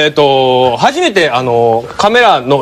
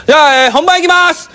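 drowsy AD countdown; 13 semitones higher, slower than usual. Retold or imitated. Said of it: "こっちの声で".

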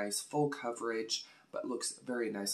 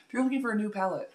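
fast, higher, louder retake; quick redo; 8 semitones higher, 6 dB louder, much faster than usual. Shown as a demonstration. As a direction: rush the corrected line out brightly. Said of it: "that was too much".

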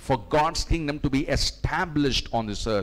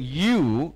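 You hit louder, set apart by a pause before the rest; emphatic you; 2 semitones higher, 4 dB louder than usual. Shown as a demonstration. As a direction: punch the word You against them. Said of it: "the word "you" there is emphatic".

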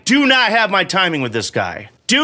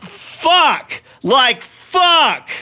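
frustrated curse; 8 semitones higher, much slower than usual. Real, not acted. Frustrated rant at the fight.

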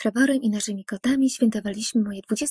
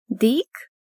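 surprised. Acted. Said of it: "starsza pani uniosła brwi".

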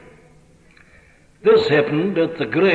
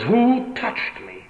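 sudden question; 7 semitones higher, slower than usual. Retold or imitated. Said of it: "our Lord suddenly says".

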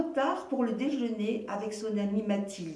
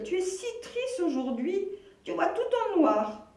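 lightly voiced Mathilde; 11 semitones higher, 4 dB louder than usual. Mathilde teases sad Pablo.

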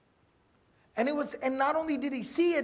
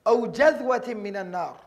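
quick recitation; 2 semitones lower, 4 dB louder, much faster than usual. Acted. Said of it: "uses the word".

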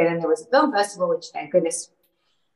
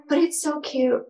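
put-on cutesy baby voice; 5 semitones higher, 3 dB quieter than usual. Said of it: "I'm like".

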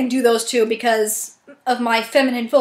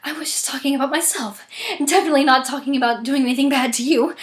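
put-on mean girl character. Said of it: "Why am I turning into Princess Amber".

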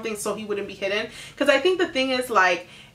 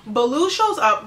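whisper; 3 semitones higher, 4 dB louder than usual. Real, not acted. Correcting who arrives.

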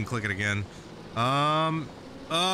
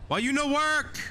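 put-on broken-English accent; 12 semitones higher than usual. Frustrated broken-English voice at game.

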